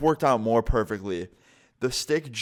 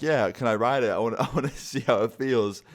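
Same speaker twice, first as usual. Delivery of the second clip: laughing at how it sounds; chuckling mid-sentence; laughing through it. Retold or imitated. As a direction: repeat it while cracking up. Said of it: "I probably shouldn't have said that".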